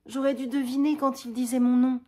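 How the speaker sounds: high and loud, pressing him; unmasking him with overwhelming emotion; impassioned accusation. Acted. Roxane pressing Cyrano with the truth, high and loud.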